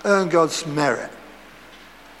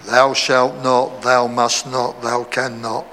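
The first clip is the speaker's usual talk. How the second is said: lower, slow, solemn thou-shalt voice; legalistic preacher; 6 semitones lower, slower than usual. Retold or imitated. Preacher mocks legalism with lower, slow, solemn commandments. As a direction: lay down the law like an old legalist. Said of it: "You've got legalism".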